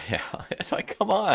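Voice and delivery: whispered, laughing "come on"; a real whispered scoff; exasperated whisper. Real, not acted. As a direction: breathe it in disbelief.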